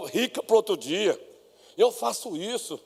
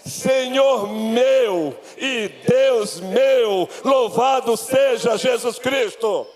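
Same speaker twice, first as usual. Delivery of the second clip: higher, emphatic proclamation with long held words; full-force preaching; 5 semitones higher, slower than usual. Acted. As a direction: declare it to the whole church, drawing out key words. (pregação vibrante, proclamada com fervor)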